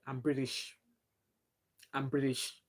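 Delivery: a hint of proud kids saying it; kids claiming British. Mother imitating her children claiming to be British, soft. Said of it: "If you ask them now".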